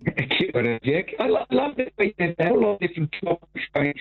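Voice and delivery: underwater gurgling voice. Real, not acted. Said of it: "It sounds like you're underwater".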